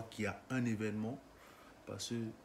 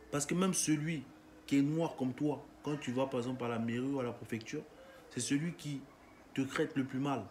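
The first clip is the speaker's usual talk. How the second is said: heated rant; 3 semitones higher than usual. Real, not acted.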